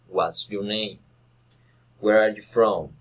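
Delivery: "What's your name?" and "Where are you from?" falling at the end; falling intonation. Shown as a demonstration. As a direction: let "name" and "from" drop. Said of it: "following intonation".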